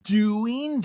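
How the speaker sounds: lightly voiced Denise drawling slowly; slow knowing warning; Denise impression. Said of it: "Denise says".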